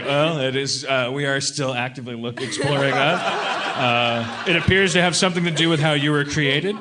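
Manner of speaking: evasive press briefing tone; press secretary voice. Retold or imitated. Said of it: "like the White House press correspondent".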